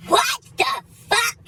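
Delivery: high, drawn-out disbelief; mock shock. Driver feigning surprise to the officer, exaggerated shock. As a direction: act stunned, stretching each word high.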